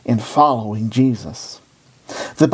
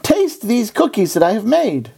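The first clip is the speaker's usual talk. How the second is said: higher, eager storybook voice; eager cry; 8 semitones higher than usual. A narrator's reading. Toad offers Frog his fresh cookies, eagerly crying out. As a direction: urge a friend to try your treat. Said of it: "cried Toad".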